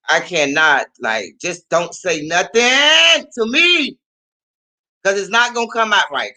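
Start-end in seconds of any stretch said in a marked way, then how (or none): 1.4-4.0 high, drawn-out angry outburst; can't keep voice down. Acted. Warning whoever talks to her when mad, raised angry voice. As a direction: stretch it out, voice rising sharply in irritation. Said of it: "I can't bring my voice down".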